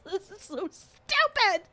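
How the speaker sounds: high, slow, helpless giggly voice; words squeezed out through laughter; laughing. Real, not acted. Telling a silly crying story, laughing. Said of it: "I'm gonna sob".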